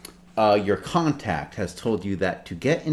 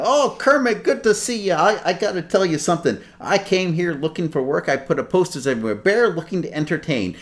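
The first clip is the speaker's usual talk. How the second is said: higher, eager bear voice rambling; Fozzie Bear; 6 semitones higher than usual. Acted. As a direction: chat up an old pal about looking for work.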